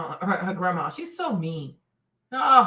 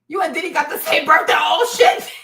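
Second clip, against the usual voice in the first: excited shout; 4 semitones higher, 5 dB louder than usual. Retold or imitated. Shocked reaction to shared birthday.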